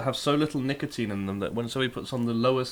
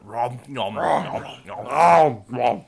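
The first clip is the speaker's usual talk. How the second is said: nom nom chomping; 4 dB louder, much slower than usual. Shown as a demonstration. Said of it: "eating a sandwich does sound like".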